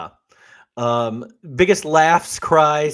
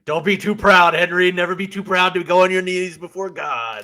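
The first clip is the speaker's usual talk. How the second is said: preachy Nixon; 6 semitones higher, 5 dB louder than usual. Retold or imitated. Nixon urging Kissinger to pray.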